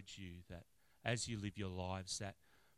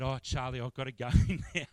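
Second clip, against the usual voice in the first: apologetic interruption; 4 semitones higher, 13 dB louder than usual. Retold or imitated. Cutting short a long visit.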